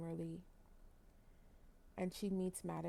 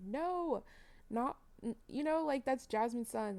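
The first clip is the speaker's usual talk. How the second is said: shocked disbelief; 5 semitones higher than usual. Retold or imitated. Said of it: "I was so shook".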